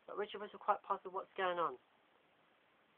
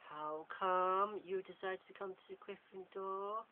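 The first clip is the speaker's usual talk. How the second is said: angry voice; 3 semitones higher, much slower than usual. Acted. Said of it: "says Richard in an angry voice".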